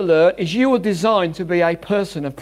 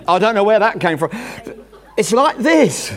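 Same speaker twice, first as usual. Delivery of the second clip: laughing. Real, not acted. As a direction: still laughing through the words. Laughing after joke.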